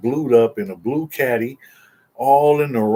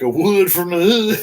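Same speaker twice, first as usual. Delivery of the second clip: amused teasing; 4 semitones higher, 5 dB louder than usual. Retold or imitated. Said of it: "And he giggled".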